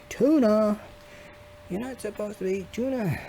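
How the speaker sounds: a light tease in a put-on voice; lightly mock voice. Teasing himself about tuna in a put-on voice.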